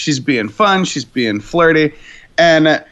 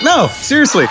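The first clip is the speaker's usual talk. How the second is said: insistent shout; 6 semitones higher than usual. Retold or imitated. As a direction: shout it like you won't be doubted. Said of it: "And he's like".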